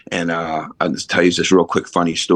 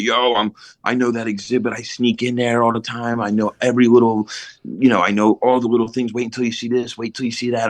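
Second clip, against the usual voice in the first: eager show-off, slightly higher pitch; imitated bragging; 4 semitones higher than usual. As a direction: play the kid boasting to the whole class. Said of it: "I'm bragging all about Ben".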